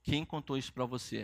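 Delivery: low, subdued imitation of someone crying; understated tearful question; retold tearful question. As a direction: ask it quietly, lightly acting out tears. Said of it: "ela falou chorando, falou assim".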